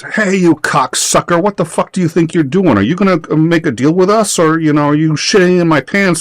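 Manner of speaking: bully the German on the phone with swears; swearing up a storm. Retold or imitated. Friend cursing at German businessman, hammed-up aggression. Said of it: "he just starts swearing up a storm".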